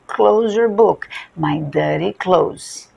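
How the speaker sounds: slow Close your book then My dirty clothes; match close and clothes slowly; same sound. Shown as a demonstration. Teacher drilling the matching sounds. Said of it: "a pronúncia é igual".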